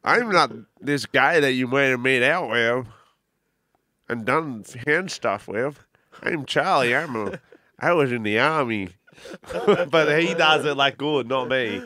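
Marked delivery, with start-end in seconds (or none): 0.0-8.9 a hint of a different man hiding his identity; pretend stranger Charlie. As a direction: play a made-up guy, half-hearted disguise. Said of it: "you could be a different person walking past her".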